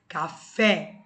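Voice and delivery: café with a loud, strong fé; stress on fé. Shown as a demonstration. Teacher showing students the stressed syllable, loud. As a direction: hit the last syllable of café. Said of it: "o fé é a mais forte".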